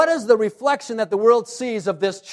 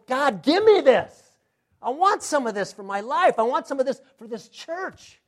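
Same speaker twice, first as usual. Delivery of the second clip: fervent plea; 4 semitones higher than usual. Acted. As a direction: plead hungrily to God. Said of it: "I read this and I go".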